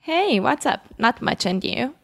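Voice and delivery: slightly effortful practice greeting, pitched high; careful, high-pitched learner's reply; a bit forced. Shown as a demonstration. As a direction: answer like a learner trying a bit too hard. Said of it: "parecia um pouco esforçado".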